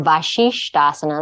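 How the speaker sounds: Vashishtasana with sh twice; doubled sh. Shown as a demonstration. Speaker showing the doubled shush mistake. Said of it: "They double the shush".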